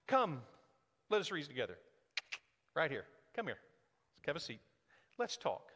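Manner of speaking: a mild cozy "let's get coffee" voice; gentle invitation. Retold or imitated. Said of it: "And that's not right".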